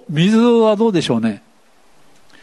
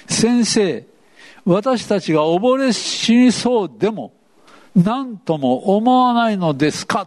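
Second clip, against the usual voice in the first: desperate cry; 5 semitones higher, slower than usual. Retold or imitated. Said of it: "どんな叫ぶ声だったんでしょうか？".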